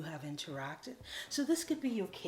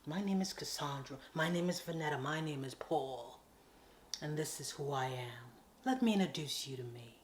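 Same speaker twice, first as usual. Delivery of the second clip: confident introduction; 3 semitones lower than usual. Shown as a demonstration. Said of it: "But if you said".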